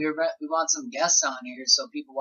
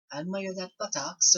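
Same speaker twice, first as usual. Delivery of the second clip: attempted Australian accent, a little higher; 4 semitones higher, 4 dB quieter than usual. Shown as a demonstration. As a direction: admire it in a rough Australian accent. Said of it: "with an Australian accent".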